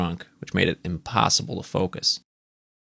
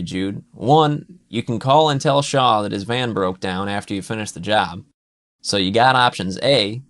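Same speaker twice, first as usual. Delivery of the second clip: Pete's pitch; 4 dB louder than usual. Acted. Pete bargaining with Jude to stay until Saturday, lightly raised. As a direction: talk him round like a buddy.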